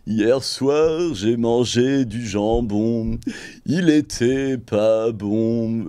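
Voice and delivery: impression of a singer. Shown as a demonstration. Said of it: "a singer".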